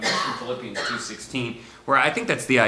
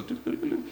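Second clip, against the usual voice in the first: birds gliding sound. Shown as a demonstration. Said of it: "They just go".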